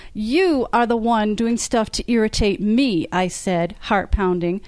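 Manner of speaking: author reading her own novel aloud, voicing the characters lightly; story reading. A narrator's reading. Author reads an elevator quarrel to fans, lively narration. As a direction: read the scene to the audience like a storyteller.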